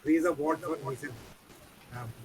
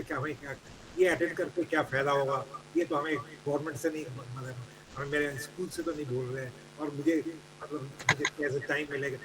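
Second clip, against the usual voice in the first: rapid grumbling excuses; much faster than usual. Retold or imitated. Teachers' excuses voiced as a quote.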